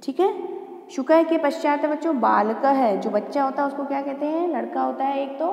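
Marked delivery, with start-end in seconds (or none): 2.2-3.0 बालकः with final h sounded; visarga as ha. Shown as a demonstration. Teacher reading the next word to children, visarga as ha. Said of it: "एक एक करके इन शब्दों का उच्चारण करती हूँ".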